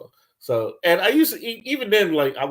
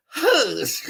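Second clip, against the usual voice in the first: shushing supervisor; 12 semitones higher than usual. Retold or imitated.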